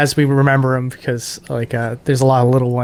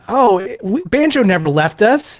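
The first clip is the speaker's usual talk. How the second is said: higher, slower sentimental character voice; Banjo voice; 9 semitones higher, slower than usual. Retold or imitated. Replaying the SpongeBob bit, higher and slow. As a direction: sound touched and earnest. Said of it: "we were like".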